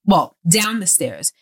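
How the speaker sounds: normal talking voice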